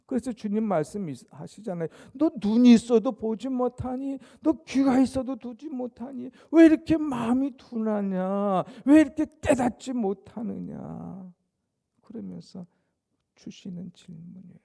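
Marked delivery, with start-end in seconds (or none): 2.1-11.3 loud, higher scolding voice of Jesus; Jesus rebuking his dull disciples, loud and stern; stern rebuke. Acted. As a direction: scold them loudly for not understanding.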